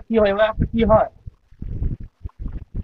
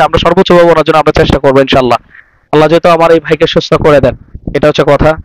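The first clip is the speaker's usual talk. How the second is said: formal address; 2 semitones lower, 12 dB louder than usual. Real, not acted. Addresses viewers after the interview.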